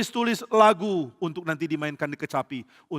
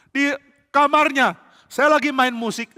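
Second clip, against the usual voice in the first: alarmed protest; 9 semitones higher, 5 dB louder than usual. Acted. Daud insists he was attacked.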